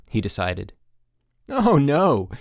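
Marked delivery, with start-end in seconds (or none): 1.5-2.3 louder, firm counselor; serious peppy counselor. Acted. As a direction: set a rule kindly but firmly. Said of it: "said Chip seriously".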